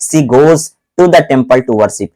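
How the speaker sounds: spaced out slowly, each word clear; slow dictation. Shown as a demonstration. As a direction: read the sentence slowly for the class. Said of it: "लेकिन अब देखो". (धीरे-धीरे बोलकर लिखवाना)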